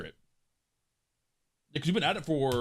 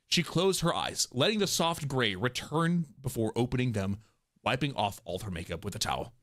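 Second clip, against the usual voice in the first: story narration; 4 semitones lower than usual. A narrator's reading. Narrator describing makeup being wiped off, subdued storytelling. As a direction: let each phrase settle downward.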